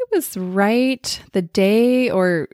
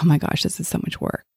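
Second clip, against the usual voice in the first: whispered groan; faster than usual. Retold or imitated. Example overwhelmed parent thought.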